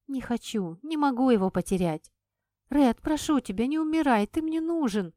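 tearful plea. Acted. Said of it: "шептала я ему в ухо".

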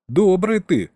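chuckling. Acted. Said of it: "хохотнул Саня".

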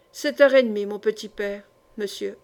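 lightly voiced old woman, sure of herself; assured. Old woman assures the gentleman of the hour, confidently. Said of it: "répondit avec assurance".

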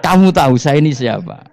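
high, loud challenge with a laugh in it; Umar shouting back. Acted. Umar turning the angels' question back on them, loud and high.

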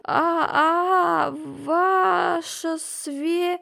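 high, slow broken whimper; pitiful bleating. A narrator's reading. Terrified craftsman pleading with the margrave, pitiful bleating. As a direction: bleat and stumble in terror. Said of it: "жалобное блеяние".

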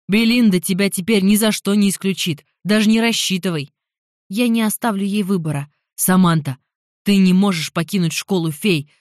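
loud, insistent objection; heated arguing. Acted. Jeremy argues that Samantha cannot leave fairy school, loud heated insistence. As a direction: argue her down hard.

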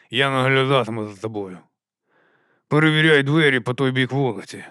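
character voice from the corner of the mouth; side-of-the-mouth talk. Acted. Corporal instructs the new recruit, talking from the mouth's corner. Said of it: "розмовляти кутиком рота".

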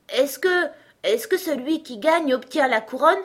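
high, halting, breathless question; out of breath. A narrator's reading. Alice asks while running after the king, breathless. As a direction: stammer the start, winded from running. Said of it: "elle était hors d'haleine à force de courir".

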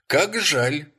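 high, loud rising cry of "Как жаль"; "Как жаль" thrown up high and loud, rising at the end; exclaimed. Acted. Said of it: "воскликнул Рекс".

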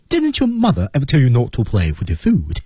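high-pitched scolding bird; Zazu. Acted. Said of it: "那里面扮演的就是Zazu".

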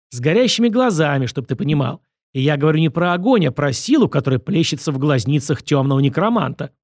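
lightly voiced director, animated and instructive; emphatic, patronizing critique; pompous lecturing director. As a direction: lecture the actor with theatrical emphasis.

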